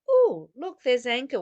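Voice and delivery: bursts out loud and bright, pointing at the anger; mock excited greeting. Teacher showing students how to greet anger, mock excited. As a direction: pretend delighted discovery.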